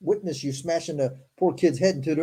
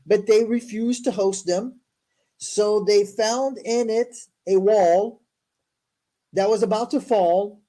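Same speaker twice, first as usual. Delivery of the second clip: formal, deliberate read-aloud; scripture reading; slower than usual. Acted. Host reading Moses's story to listeners, formal recital. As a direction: recite the verses with careful emphasis.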